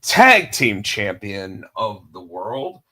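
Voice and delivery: slow, drawn-out announcer call for the show's opening; ring announcer intro. Acted. Host opening his wrestling podcast, announcer style. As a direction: open the show like a wrestling ring announcer, stretching the last line.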